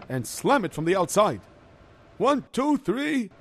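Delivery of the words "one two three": effortful counting. Acted. Counting before a slam.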